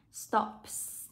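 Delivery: stops with a hissed final s; final S sound. Shown as a demonstration. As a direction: end stops on a clear voiceless s. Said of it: "được đọc cho cô là âm S".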